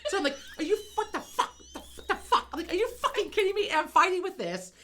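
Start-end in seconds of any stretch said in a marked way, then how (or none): 0.6-2.5 exasperated disbelief. Retold or imitated. Frustrated at stuck door. 2.7-3.7 exasperated disbelief. Retold or imitated. Frustrated at stuck door.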